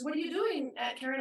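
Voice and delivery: a hint of a curious small child; imitating little niece. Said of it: "she was, like, two".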